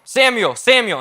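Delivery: calling out. A narrator's reading. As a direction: call the name out, voice lifted. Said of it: "then God called again".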